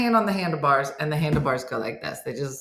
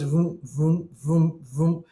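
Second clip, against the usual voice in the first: imitated wheel noise; slower than usual. Imitates kickstand rubbing on wheel.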